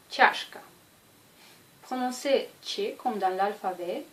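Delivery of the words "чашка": "Чашка" whispered; whispered demo. Shown as a demonstration. Teacher whispers the word for students, voiceless.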